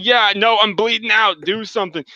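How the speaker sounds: dying stranger. Retold or imitated. Dying man voiced in retold encounter.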